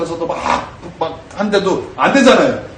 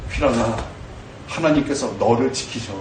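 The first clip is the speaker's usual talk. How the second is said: tender self-address; 7 semitones lower, 7 dB quieter than usual. Shown as a demonstration. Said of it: "선포하는 거예요".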